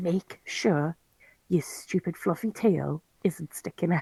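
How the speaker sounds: very quiet, slow, hushed whisper. Playing a cat, telling a hidden companion to stay out of sight: whispering. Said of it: "I'll whisper to him".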